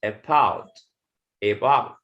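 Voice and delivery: "about" with weak "uh" first, stress on second syllable; initial schwa. Shown as a demonstration. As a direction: model "about" carefully, twice. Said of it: "we will pronounce it".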